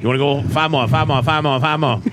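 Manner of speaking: fast rattling auction chant; auctioneer. Pretend. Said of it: "You sound more like an auctioneer".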